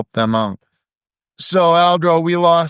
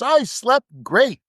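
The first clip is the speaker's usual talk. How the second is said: put-on quoting young Haley; 12 semitones higher, slower than usual. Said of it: "And she says".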